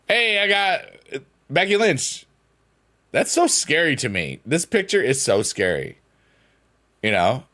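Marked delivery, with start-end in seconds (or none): 0.1-2.2 high, slow excited reveal. Real, not acted. Streamer pulling a Becky Lynch card, high and excited. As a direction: stretch it out in delight.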